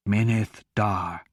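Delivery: low, slow, rumbling monster voice; rumbling beast. A narrator's reading. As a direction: speak like thunder from a huge beast. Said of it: "the Galarabrin replied".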